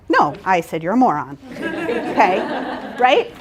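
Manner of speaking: joking through laughter. Real, not acted. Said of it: "trainer jokes after reading exercise".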